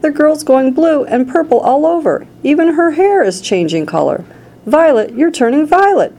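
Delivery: high, frantic alarm; panicked yell. A narrator's reading. Mother watches daughter change color, high panicked yell. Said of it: "yelled Missus Beauregard".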